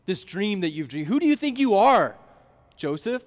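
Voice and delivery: a father stunned by his son's boast; shocked father. Retold or imitated. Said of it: "Jacob is just kinda shocked".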